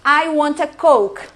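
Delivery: exaggerated pushy customer demanding a Coke; rude demand. Shown as a demonstration. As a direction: bark the order like a rude customer. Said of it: "vou fazer o teatro".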